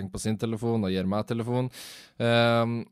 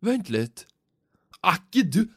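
rising, high, louder and louder recognition; excited fan; 10 semitones higher, 7 dB louder than usual. Retold or imitated. Twenty-something fan recognising the vlogger, climbing into excited high squeal. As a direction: build into a thrilled squeal of recognition.

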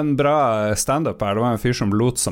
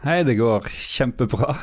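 slow, drawn-out pretend guest; slower than usual. Colleague poses as show guest, slow mock-cheery reply. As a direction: play the guest answering the host.

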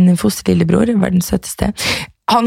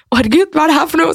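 higher, fast, flustered; flustered exclaim; 6 semitones higher, much faster than usual. Retold or imitated. Stuck on the homework while the others laugh, flustered. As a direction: rattle it off in a panic. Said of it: "og jeg bare".

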